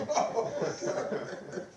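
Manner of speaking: slow, breathless whisper with a laugh; stunned whisper. Retold or imitated. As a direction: let the shock slip out under a laugh. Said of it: "And I was like".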